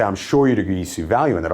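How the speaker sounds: quick assertion falling on "that"; downward inflection. Shown as a demonstration. Salesman telling the customer they agree, with downward inflection. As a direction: state it as fact, dropping at "value in that". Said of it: "I'm saying it with a downward inflection".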